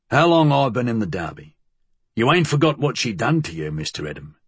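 lightly voiced dialect-speaking old associate; uneasy challenge in working-class dialect; a hint of a streetwise henchman; Flood's rough dialect.

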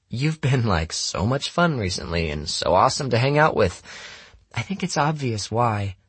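put-on high, teasing girl's sarcasm; sardonic girl. Lena needles Jamie about being fun, sarcastic. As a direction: lay on mock praise in a high voice.

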